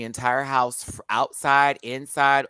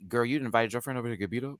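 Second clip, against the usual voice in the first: gossipy imitation; 5 semitones lower, 3 dB quieter, much faster than usual. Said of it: "like he said".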